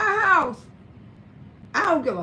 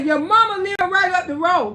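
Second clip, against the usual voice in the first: louder, pointed scolding; scolding son; 3 semitones higher, 5 dB louder than usual. Retold or imitated. Mother scolds her son about his girlfriend, loud and pointed. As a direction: tell him off, leaning on mama. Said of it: "I say".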